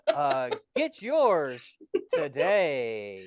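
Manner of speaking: hammed-up commercial pitch, stretching key words; mock ad pitchman. Host pitching boomsticks in a fake commercial, hammed-up salesman. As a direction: sell it like a cheesy TV ad.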